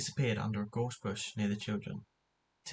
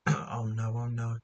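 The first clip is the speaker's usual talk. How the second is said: louder, panicked oh no; cry of panic; 5 dB louder, slower than usual. Acted. George panicking as Tim falls down the well, crying out loud. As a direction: blurt it out in alarm. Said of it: "cried George in panic".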